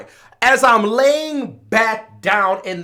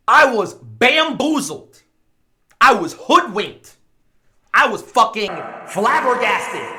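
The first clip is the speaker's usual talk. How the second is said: dramatic emphasis; 4 semitones higher, 4 dB louder than usual. Real, not acted. Dramatic list of synonyms.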